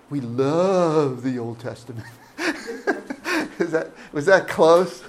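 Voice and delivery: words carried on a chuckle; laughing through it. Retold or imitated. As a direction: giggle as you say it. Imitating fellow pastor's line.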